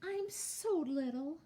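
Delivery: high, small, pleading voice; squeaky little goat. A narrator's reading. Baby goat telling the troll he is too small, high squeak. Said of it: "he squeaked".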